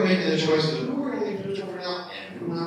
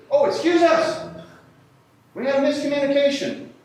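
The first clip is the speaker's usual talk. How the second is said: mock apology; 11 semitones higher, 8 dB louder than usual. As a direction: feign innocence with heavy sarcasm. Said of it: "they said this".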